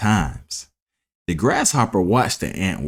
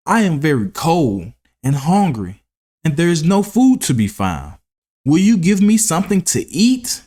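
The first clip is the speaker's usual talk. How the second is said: lightly voiced begging grasshopper, higher; pleading grasshopper; 7 semitones higher than usual. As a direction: ask for food, climbing higher. Hungry grasshopper begging food.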